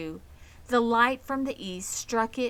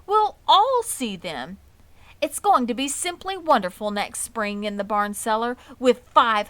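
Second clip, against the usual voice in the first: cheering up; 3 semitones higher, 7 dB louder than usual. Acted. Wilbur cheering up Charlotte.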